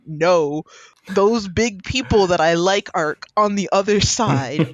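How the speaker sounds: hammed-up indignant toddler; a little girl protesting the playpen, mock outrage; voicing the baby. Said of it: "And it's like".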